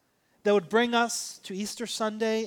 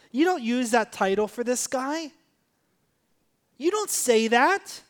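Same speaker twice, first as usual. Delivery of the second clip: stern crowd reproof. Acted. Crowd objecting to the title, mildly stern reproof. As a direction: voice an indignant crowd, lightly acted. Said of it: "the crowd sternly told them to be quiet".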